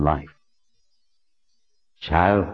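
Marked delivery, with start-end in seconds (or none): 2.0-2.5 slow, echoing ethereal spirit; unearthly spirit voice. A narrator's reading. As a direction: speak like an ancient ghost from beyond. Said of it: "The unearthly sound of his voice".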